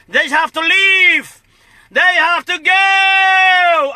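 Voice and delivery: slow, drawn-out shout. Real, not acted. Rally speech, slow shouted demand.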